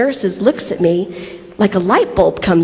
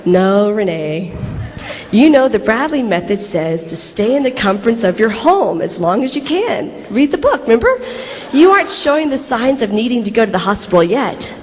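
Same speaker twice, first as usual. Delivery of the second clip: reassuring husband. Retold or imitated. Husband telling labouring wife to stay home, mock reassurance. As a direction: imitate a patient husband talking her down. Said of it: "the voice of assurance".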